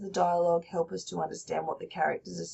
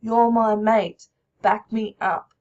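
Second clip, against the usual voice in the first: persuading mate; 2 semitones higher, 7 dB louder than usual. Acted. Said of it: "So he's saying".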